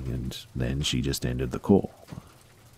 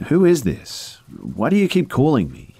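scared shout; 11 semitones higher, 5 dB louder than usual. Acted. Frightened caller shouting into phone.

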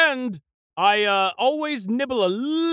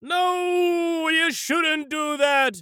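shouting; 5 semitones higher, much slower than usual. Acted. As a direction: cry out no in alarm. Santa protests throwing trees out.

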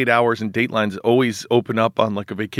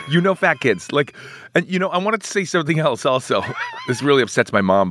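laughing; 3 semitones higher than usual. Real, not acted. Laughing defense.

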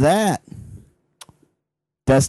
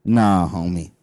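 low security guard voice; 9 semitones lower, 4 dB quieter, slower than usual. Acted. Security guard answers lady friend.

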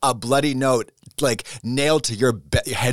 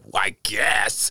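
slow, low and grudging; unwilling sigh of a yes; reluctant grudging agreement; 6 semitones lower, slower than usual. Retold or imitated. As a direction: give in with a reluctant shrug. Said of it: "And Barbara's like".

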